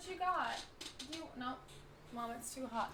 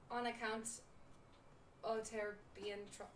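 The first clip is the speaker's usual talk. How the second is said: halting put-on pirate brogue; unsure, broken-off pirate accent; attempted pirate accent; 6 dB quieter than usual. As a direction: try a pirate accent and break off. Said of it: "I'm not committing. I can't do it".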